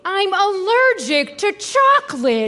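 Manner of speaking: irritated, emphatic refusal; fed-up refusal; exasperated. Acted. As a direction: turn the offer down with impatience. Irritably refusing his offers.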